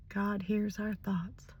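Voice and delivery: hushed whisper, slow and gentle; husband's quiet answer. Retold or imitated. Wife retelling her husband's calm reply, a slow hushed whisper. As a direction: breathe the words like a secret reassurance.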